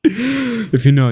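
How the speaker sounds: high laughter trailing into slow words; laughing. Real, not acted. Laughs at his impression.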